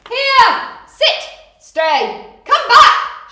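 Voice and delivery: high, loud dog commands; shouted commands. Acted. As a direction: call your dog back firmly. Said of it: "shouted the dog's people".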